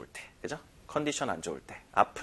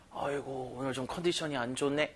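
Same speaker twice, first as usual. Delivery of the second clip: sighing complaint; 8 dB quieter than usual. Acted. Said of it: "이럴 때 쓰는 말이에요".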